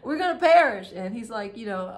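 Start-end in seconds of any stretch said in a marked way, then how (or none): 0.0-0.9 higher, louder, laughing mock panic. Disciples waking Jesus in the storm, laughing mock panic. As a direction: ham up the frightened disciples through laughter. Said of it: "the disciples are panicking".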